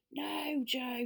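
high-pitched storybook refusal; alarmed objection. A narrator's reading. Beth stops Joe's prank on the gnome, high protest. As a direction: cut off the mischief with a firm no.

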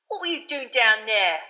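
a cocky young conductor's voice, lightly voiced; casual Stan. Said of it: "said Stan, dropping his professional manner".

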